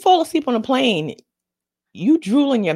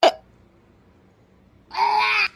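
disapproving uh uh; 12 semitones higher than usual. Retold or imitated. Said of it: "And I was like".

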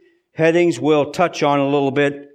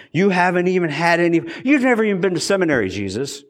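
mocking dismissal; faster than usual. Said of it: "what he's saying".

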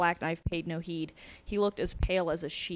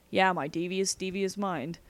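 edged sarcasm. Acted. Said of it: "with an edge in his voice".

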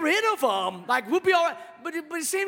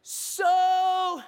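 sheepish Mary confessing; 3 semitones higher than usual. Retold or imitated. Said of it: "she's like".

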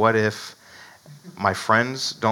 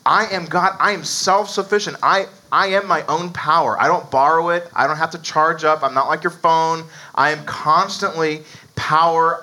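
voice of Jesus; 4 semitones higher than usual. Acted. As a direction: speak as God declaring himself. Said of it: "Jesus is again pointing back to Exodus and saying".

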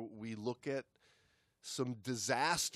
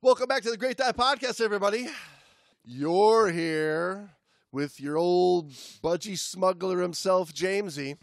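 fast, higher, louder hammed-up Aussie intro; mock Australian announcer; 6 semitones higher, 8 dB louder than usual. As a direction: welcome them like an Aussie radio host. Aussie bit carried into intro.

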